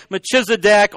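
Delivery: "Melchizedek" as muh-CHIZ-uh-dek; CH variant without L. Shown as a demonstration. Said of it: "I've heard it".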